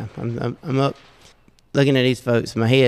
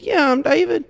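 puzzled high reply. Retold or imitated. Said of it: "I said".

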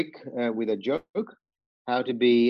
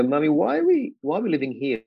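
lightly voiced small boy, higher at the start; child asking mum; 4 semitones higher than usual. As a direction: ask your mum sadly, like a little boy. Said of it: "And I said to her".

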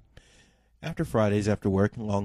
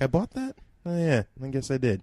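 surprised; 4 semitones higher than usual. Retold or imitated. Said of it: "it's like".

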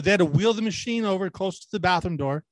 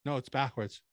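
telling the nurse; 3 semitones lower, 9 dB quieter than usual. Retold or imitated. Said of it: "I literally go".

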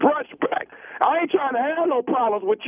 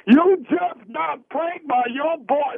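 prank reveal; 3 semitones higher, slower than usual. Acted. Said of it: "This is nephew Tommy".

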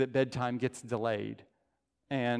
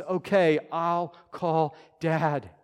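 confident answer; 2 semitones higher, 3 dB louder, much slower than usual. Retold or imitated. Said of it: "the proper response is".

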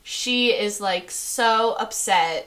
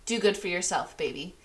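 tender farewell; 3 semitones lower, 6 dB quieter, faster than usual. Acted. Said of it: "she's like".

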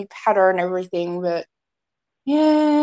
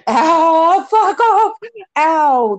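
yelping in pain at a stinging wound; 7 semitones higher, 5 dB louder, much slower than usual. Real, not acted. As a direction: cry out as the sting hits. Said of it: "that stings like a mofo".

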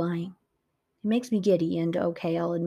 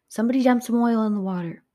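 urgent order; 4 semitones higher, 5 dB louder, faster than usual. Acted. Ordering the crew mid-chase.

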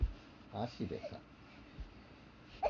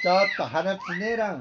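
loud protest; 3 semitones higher, 5 dB louder than usual. Real, not acted. Child pinching his nose.

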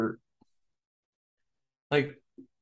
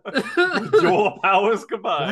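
cartoon hero voice; 7 semitones higher, 4 dB louder, much slower than usual. Quoting cartoon summoning line.

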